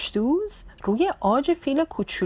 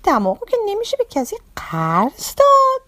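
higher, louder amused ladybug voice; laughing ladybug; 5 semitones higher, 3 dB louder, much faster than usual. Acted. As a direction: tease the elephant kindly, higher. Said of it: "زد زیر خنده و گفت". (بابا کفشدوز با خنده و صدای زیرتر)

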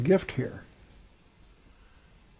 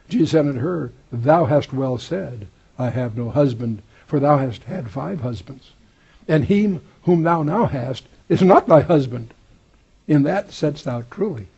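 raised, emphatic reading of scripture; 4 dB louder than usual. Acted. Preacher reads the Bible aloud to his class, raised and emphatic. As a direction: proclaim the verse to the congregation.

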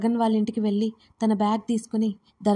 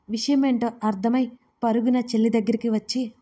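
plain reading voice

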